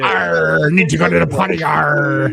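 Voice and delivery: growled pirate Arr with a light mock lilt; a light hammed-up pirate growl. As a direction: play a pirate needing the potty. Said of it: "He's not a pirate".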